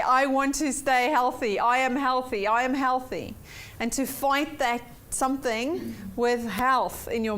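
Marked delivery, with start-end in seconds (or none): 0.0-3.3 firm positive affirmation. Shown as a demonstration. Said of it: "Much better to say".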